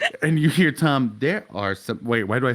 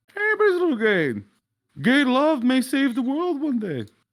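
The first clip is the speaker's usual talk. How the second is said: snide put-on voice, pitched higher. Imitating Joseph coming around the corner with a snide line: Joseph impression. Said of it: "you do hear Joseph".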